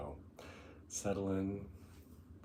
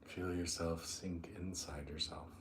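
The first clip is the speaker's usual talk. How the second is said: unhurried meditation guide, long pauses between phrases; guided meditation; 7 dB quieter than usual. Acted. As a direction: ease them down into the breath, drawing out key words.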